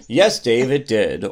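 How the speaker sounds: "Yes, Dave, it did" stepping down to DID; falling answer tune. Shown as a demonstration. Modelling the co-host's reply, pitch falling to DID. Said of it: "And you, and you would say".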